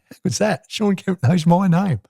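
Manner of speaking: gleeful thought, drawn out slowly; thrilled he knows my name; delighted inner thought. Retold or imitated. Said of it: "I must have smiled thinking".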